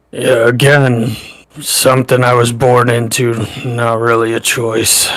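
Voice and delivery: put-on half-hearted Irish accent, not quite pulled off; a hint of badly faked Irish. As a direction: attempt an Irish accent and miss slightly. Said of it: "somebody trying to do an Irish accent and not quite pulling it off".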